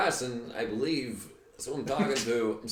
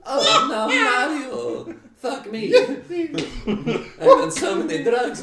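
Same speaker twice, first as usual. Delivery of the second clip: high shrieking laughter; laughing hard; 8 dB louder than usual. Real, not acted. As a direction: laugh loud and high while talking. Reacting to Mario impression.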